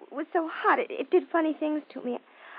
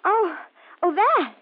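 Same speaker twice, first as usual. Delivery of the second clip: higher, louder casual excuse; breezy cover-up; 3 semitones higher, 4 dB louder than usual. Acted. Daughter explaining away scream to neighbour, falsely casual. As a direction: brush it off brightly.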